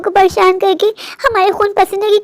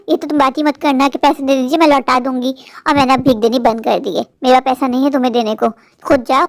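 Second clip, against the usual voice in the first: lower, cold rebuke of a poor relative; scolding rich sister; 4 semitones lower than usual. Acted. Rich sister turning away poor Rani, lower and scornful. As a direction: brush her off with contempt.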